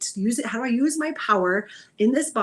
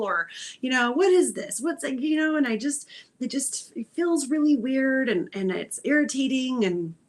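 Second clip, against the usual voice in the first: mild frustration at the body. Acted. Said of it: "a little bit of dialogue of".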